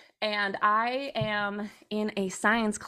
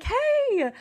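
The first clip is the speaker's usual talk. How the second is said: sweet text voice; 6 semitones higher than usual. Retold or imitated. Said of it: "send me a nice little text message being like".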